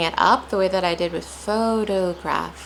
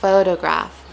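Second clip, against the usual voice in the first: "photograph" as one word, stress on PHO; whole-word "photograph" with first-syllable stress; said all together; 4 dB louder than usual. Shown as a demonstration. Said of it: "when I say it all together".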